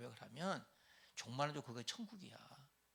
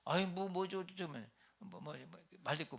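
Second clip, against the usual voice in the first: higher, stammering irritated brush-off; grumbling husband; 5 semitones higher than usual. Acted. Husband brushing off his complaining wife, irritated. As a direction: cut her off, fed up.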